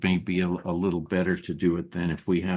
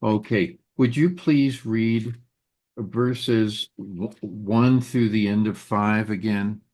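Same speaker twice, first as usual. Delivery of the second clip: hoarse, fading voice; strained voice going hoarse; losing voice. Real, not acted. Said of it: "slowly losing my voice".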